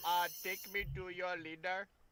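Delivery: flat, level, monotone robot voice. Joking about a game character, doing his voice: Stephen Hawking robot voice. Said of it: "his robot voice".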